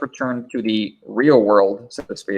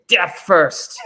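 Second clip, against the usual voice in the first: higher, dramatic Princess Bride heroine; Carrie Ellis voice; 7 semitones higher than usual. Retold or imitated. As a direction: declare it like a swooning storybook princess. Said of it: "Carrie Ellis from Princess Bride voice here to say".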